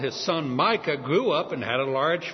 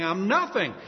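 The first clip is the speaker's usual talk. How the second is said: humble grovel; 2 semitones higher than usual. Retold or imitated. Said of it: "old Jewish way of saying".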